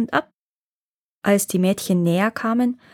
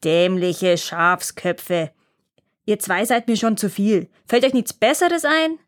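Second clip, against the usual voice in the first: angry dwarf. Acted. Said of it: "gefiel dem Zwerg gar nicht".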